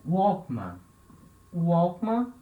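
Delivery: Walkman said with an English w sound, like wa; teacher models Walkman the English way, oo-wa; english-style walkman. Shown as a demonstration. Teacher models the English Walkman for students. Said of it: "É uma palavra de origem inglesa".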